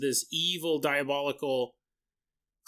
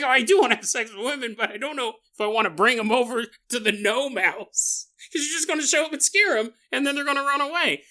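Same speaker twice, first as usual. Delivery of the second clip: high, quick objecting voice; worried protest; 8 semitones higher, 4 dB louder than usual. Acted. Teenage boy doubting the gnome's plan, high worried protest. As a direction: protest in a higher, hurried voice.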